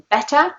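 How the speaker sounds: BETTER ending in a schwa, no R. Shown as a demonstration. Teacher contrasts it with boring, BETTER ending in a plain schwa. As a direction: drop the R at the end of BETTER. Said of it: "hear the schwa sound at the end".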